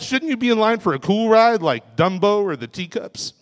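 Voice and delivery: ordinary talk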